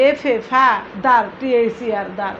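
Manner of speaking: "ফা" and "দার" said apart with their letters; teacher's piece-by-piece word breakdown; broken into syllables. Shown as a demonstration. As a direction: spell and sound out each half separately. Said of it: "ভেঙে ভেঙে উচ্চারণ করতে".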